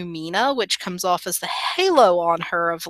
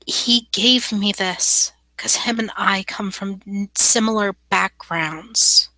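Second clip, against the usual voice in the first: slightly put-on, measured, sincere character voice; lightly voiced character making a careful pledge; earnest young fae woman; 2 semitones higher than usual.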